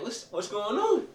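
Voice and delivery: put-on very high, slow, tearful kid's plea; crying child. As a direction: whimper it like a child starting to cry. I start to cry.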